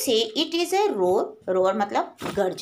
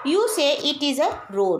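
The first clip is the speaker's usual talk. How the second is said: slow poem recitation; 3 semitones higher, much slower than usual. Acted. Teacher reading the poem line to her class, slow and measured. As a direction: draw out each word slowly, recitation style.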